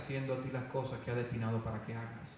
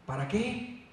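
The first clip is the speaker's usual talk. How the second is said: emphatic preaching; 4 semitones higher, 6 dB louder than usual. Real, not acted. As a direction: drive each item of the list home to the congregation. Preacher drives a list home. (prédica enfática, lenta y con voz elevada)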